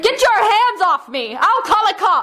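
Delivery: high, scared cry to break free; frightened outcry. Acted. Mary fends off a stranger grabbing her, frightened. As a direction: pull away from a stranger in alarm.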